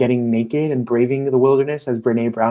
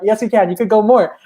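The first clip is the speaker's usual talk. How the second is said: hammed-up encouragement, much higher and louder; mock pep talk; 10 semitones higher, 6 dB louder than usual. Coach retelling the push to keep growing, higher, louder mock cheer. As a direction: cheer the scared client on, pitched way up. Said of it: "they're like".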